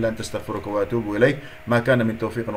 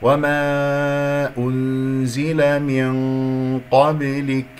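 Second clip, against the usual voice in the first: very slow recitation with held vowels; measured Quran recitation; tajweed recitation; much slower than usual. Shown as a demonstration. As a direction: recite slowly, sustaining madd and nasal hum. Recitation model in tajweed lesson.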